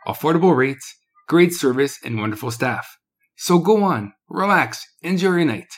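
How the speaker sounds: upbeat commercial voice; ad read. Acted. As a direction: sell it like a radio spot. Reads ad copy for a business.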